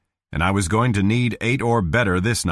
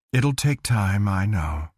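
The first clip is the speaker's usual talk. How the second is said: weary dull voice. Acted. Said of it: "The weariness still dulled her voice".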